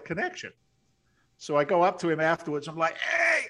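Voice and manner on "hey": excited hey. Retold or imitated. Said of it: "I'm all excited".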